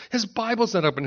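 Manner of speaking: put-on worked-up child. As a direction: mimic a kid getting worked up. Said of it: "he's getting all worked up".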